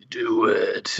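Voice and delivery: man standing in the cabin urging her on, menacing; mock-menacing villain imitation. Imitating the villain's menacing self. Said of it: "it was his menacing self".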